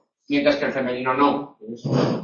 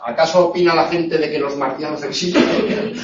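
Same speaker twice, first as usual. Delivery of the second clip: laughing read. Shown as a demonstration. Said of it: "vuelve a haber un dequeísmo".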